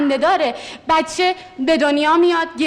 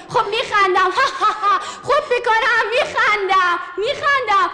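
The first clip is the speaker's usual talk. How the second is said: pushing out laughs on demand; forced laughter; 4 semitones higher than usual. Pretend. Actor laughs for the director to pass the audition. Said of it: "اگه بخندی قبولی".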